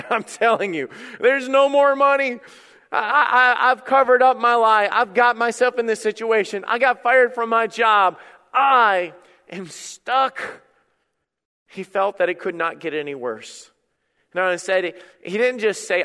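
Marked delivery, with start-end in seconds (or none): 1.2-10.6 raised voice, slowing to a drawn-out finish; mounting exasperation, last words stretched; desperate confession. Acted. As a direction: act out someone at the end of their rope. Voices a person stuck in trouble.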